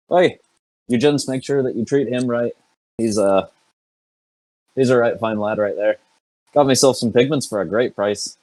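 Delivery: high, cheerful parting call; cheery call back. Acted. Felonius calling back to the party as he leaves, high cheerful voice. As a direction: sing out a jolly farewell over the shoulder. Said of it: "call back to the party and be like".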